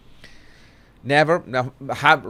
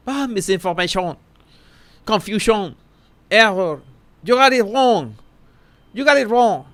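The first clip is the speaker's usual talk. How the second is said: raised-pitch mocking voice of the powerful; mock defensive claim; 5 semitones higher than usual. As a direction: parody their smug denial, pitched up. Mocking the rich people's claims.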